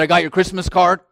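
a gruff, fast imitation of dad; imitating his dad. Imitating his upset father on FaceTime, fast and gruff. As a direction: mimic the father's grumbling tone. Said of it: "That's how he sounds".

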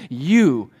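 "you" drawn out with emphasis; a long, stressed "you"; emphatic pronoun. Shown as a demonstration. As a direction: lean slowly on "you". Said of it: "again, another emphatic pronoun".

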